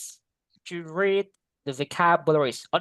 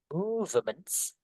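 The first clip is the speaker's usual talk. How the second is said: Movements said slowly, first syllable MOVE pressed, ends on a rise; clear stress on Movements; 3 semitones higher, 7 dB quieter, much slower than usual. Shown as a demonstration. Teacher showing the class where Movements is stressed, slow and pressed. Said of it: "Ada penekanannya ada".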